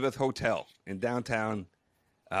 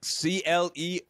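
slow, letter by letter; slowly spelling the name to the receptionist; 3 semitones higher, slower than usual. Retold or imitated. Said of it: "I said".

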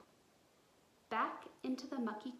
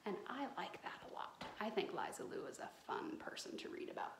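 soft aside; 3 semitones lower, 5 dB quieter than usual. Real, not acted. Teacher's soft personal aside.

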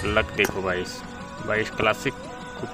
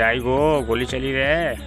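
lightly mimicked alarm, a little raised; Shreeman Legend; 3 semitones higher, 4 dB louder, much slower than usual. Gamer listing the pack's lines, mild mock alarm. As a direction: recite it as a mock warning cry. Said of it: "श्रीमन लेजेंड में".

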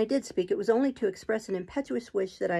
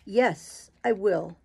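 teeth set; 4 dB louder, much slower than usual. Acted. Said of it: "he set his teeth".

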